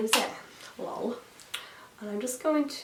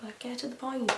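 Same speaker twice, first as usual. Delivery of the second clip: mildly impatient, softer mock complaint; retold impatience; 3 semitones higher, 5 dB quieter than usual. Viewer complaining the show dragged, mild impatience. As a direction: grumble it in passing, at normal speed.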